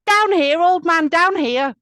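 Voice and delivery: very high, loud irritated shouting; annoyed. A narrator's reading. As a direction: holler to wake a sleeper, annoyed. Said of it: "then the voice comes again".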